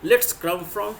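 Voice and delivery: slow teacher model sentence; slow dictation. Shown as a demonstration. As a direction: drag it out for the class. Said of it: "preposition from का इस्तेमाल".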